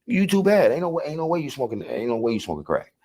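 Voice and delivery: high, disbelieving street challenge; incredulous challenge. Retold or imitated. Telling the woman he doesn't believe her, high incredulous voice. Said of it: "That's what I told her".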